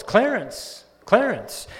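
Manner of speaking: calling the name out loud and high; preacher's yell. Retold or imitated. Pastor yelling at the open casket, retold loud. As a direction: shout the dead man's name with authority. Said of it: "He yelled at the corpse".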